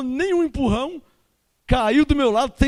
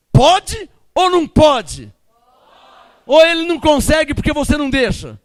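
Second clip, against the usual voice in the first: challenging shout; 3 semitones higher, 5 dB louder than usual. Real, not acted. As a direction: call them out to answer. Preacher challenging the congregation.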